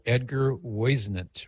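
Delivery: "Whisenant" with first syllable like "woyz"; unsure name pronunciation. Shown as a demonstration. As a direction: say "Whisenant" as WOY-zə-nənt. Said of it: "I don't know how he pronounced".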